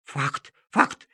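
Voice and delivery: echoing bark. Acted. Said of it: "как эхо откликнулась собака".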